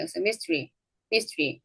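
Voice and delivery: mystery said as two beats, mis-tri; teacher modelling the dropped schwa; reduced vowel. Shown as a demonstration. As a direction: drop the middle vowel of mystery. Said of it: "이렇게 발음 된다는 거죠".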